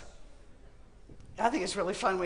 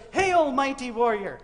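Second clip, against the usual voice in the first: sarcastic; 3 semitones higher, 5 dB louder than usual. Acted. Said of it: "I think he's being a bit sarcastic".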